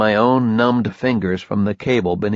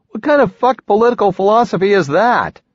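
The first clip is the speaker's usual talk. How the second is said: angry retort; 11 semitones higher, 5 dB louder than usual. Acted.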